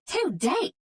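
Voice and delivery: high, disbelieving Southern squeak; stunned. A narrator's reading. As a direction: she can't believe her ears. Mandy stunned by the answer.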